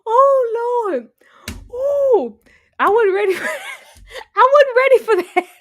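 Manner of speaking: high, loud, laughing through words; can't get over it, cracking up; laughing disbelief. Real, not acted. Laughing hard at the scene.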